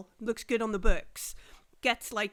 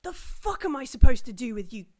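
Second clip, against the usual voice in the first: exasperated outburst; 7 dB louder than usual. Acted. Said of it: "you can see she's like".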